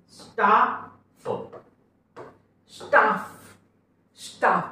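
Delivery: "स्टाफ" ending on one short f, not doubled; one f only in "स्टाफ"; single f. Shown as a demonstration. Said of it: "एकच फ चा उच्चार करू".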